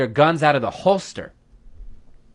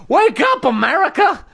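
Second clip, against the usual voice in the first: high-pitched catchphrase yell; rallying cry; 10 semitones higher than usual. Acted. Host opening a rant segment at America, rallying cry. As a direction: holler it to rouse a nation.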